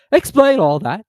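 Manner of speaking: high, loud, demanding creature; Mock Turtle voice. A narrator's reading. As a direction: bark out the demand.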